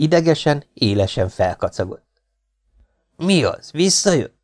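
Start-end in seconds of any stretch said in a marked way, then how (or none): 3.2-4.4 higher, startled question; frightened question. A narrator's reading. Coachman asks his friend if it came back, frightened. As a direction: ask it in a higher, alarmed voice. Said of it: "kérdezte ijedten a kockás".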